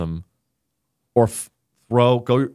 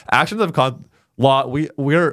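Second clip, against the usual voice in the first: put-on Texas accent. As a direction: act the plain-talking Texan. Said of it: "so I'm gonna talk like a Texan".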